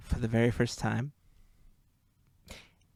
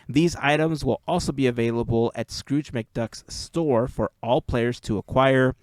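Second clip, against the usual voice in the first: reading announcement aloud. Acted.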